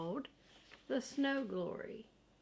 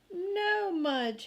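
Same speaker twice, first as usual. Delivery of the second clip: high, loud "No, Mudge"; dismayed cry; 9 semitones higher, 5 dB louder than usual. A narrator's reading. Boy sees his dog eat his flower, dismayed cry. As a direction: cry out too late to stop him.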